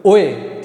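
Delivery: ओ ए run together as "oy-e"; vowel blend. Shown as a demonstration. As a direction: model ओ ए as one glide. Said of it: "ओ ए करके आवाज़ आएगी".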